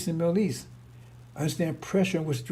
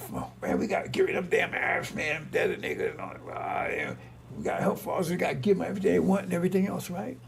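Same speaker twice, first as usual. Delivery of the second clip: mock worked-up believers. Voicing worked-up Christians' talk.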